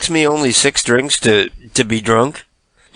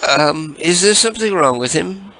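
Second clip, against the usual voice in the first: high, sugary put-on caller voice; sweet fake-friendly caller; prank caller voice; 6 semitones higher than usual.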